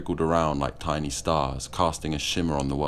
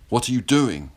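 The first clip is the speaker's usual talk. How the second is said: higher and louder, outraged; angry yell; 7 semitones higher, 5 dB louder than usual. A narrator's reading. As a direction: demand it in horror and fury. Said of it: "Joseph yelled in anger".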